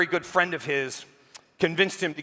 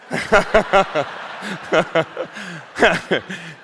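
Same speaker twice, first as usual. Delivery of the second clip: a loud burst of real laughter; hearty laugh; 4 dB louder than usual. Real, not acted. Audience-shared laugh at punchline.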